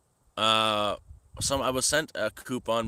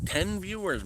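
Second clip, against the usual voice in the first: high, louder mocking streamer voice; mocking impression; 9 semitones higher, 7 dB louder than usual. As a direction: parody the snob streamer, squeaky.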